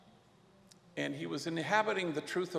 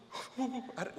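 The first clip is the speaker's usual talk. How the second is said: teary gasp; 9 semitones higher, 5 dB quieter than usual. Retold or imitated. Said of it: "we're all blubbering and crying".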